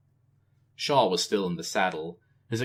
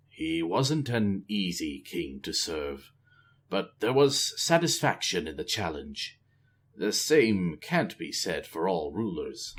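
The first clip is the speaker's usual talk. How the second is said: put-on measured old spymaster, a bit lower; lightly voiced old spy; 3 semitones lower than usual. Shaw speaking, older spy.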